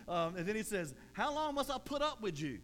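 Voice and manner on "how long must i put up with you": higher, pushed exasperation; exasperated Jesus. Retold or imitated. Pastor voicing Jesus fed up with his disciples, exasperated. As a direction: let him be fed up.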